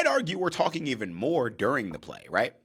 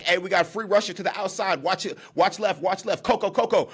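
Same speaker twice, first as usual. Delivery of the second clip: high, loud warning to the line; running back warning call; 6 semitones higher, 3 dB louder than usual. Retold or imitated. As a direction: point out the rusher, urgent. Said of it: "Running back is like".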